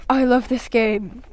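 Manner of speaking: slow, breathless pant with crazy eyes; slow, panting gamer's glee. A narrator's reading. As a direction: pant it out slowly, obsessed. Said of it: "looked at me with crazy eyes and panted".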